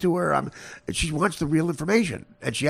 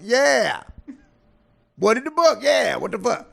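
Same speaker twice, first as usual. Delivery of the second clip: high, loud mock exasperation; mad, retold; 8 semitones higher, 4 dB louder than usual. Woman mad he doesn't understand, imitated angry yelling. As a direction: imitate her fed-up outburst. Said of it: "She's mad at me".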